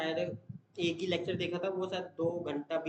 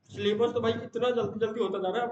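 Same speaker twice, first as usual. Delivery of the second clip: excited exclamation; 6 semitones higher, 5 dB louder than usual. Real, not acted. Exclaims syllabus moving too fast.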